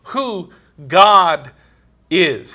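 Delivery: emphatic, delighted "yeah" opening out; excited realization. Retold or imitated. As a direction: relive the thrill of the connection clicking. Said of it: "I got excited, you know, it's like".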